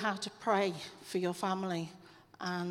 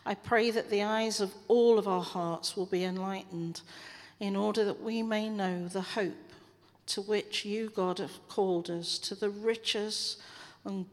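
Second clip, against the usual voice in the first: prayer. Acted. Leading the church in closing prayer. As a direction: pray it over the congregation, measured.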